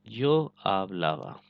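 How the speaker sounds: यो आब लावा drawn out slowly, each word spaced; slow model reading. Shown as a demonstration. Teacher modelling the verb for students, slowly. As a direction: say यो आब लावा slowly for the class to copy. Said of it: "ठीक हो गया दोस्तों".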